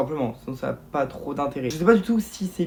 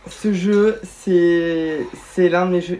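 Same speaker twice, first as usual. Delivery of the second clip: loud, higher burst of joy; excited outburst; 4 semitones higher, 8 dB louder, much slower than usual. Real, not acted. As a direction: shout it out, thrilled by the reveal. Gamer sees favourite game revealed.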